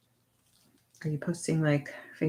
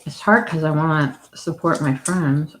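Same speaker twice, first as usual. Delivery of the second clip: talking with food in mouth; mouth full; 4 dB louder than usual. Real, not acted. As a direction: speak around something in the mouth. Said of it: "Sorry, I have the thing in my mouth".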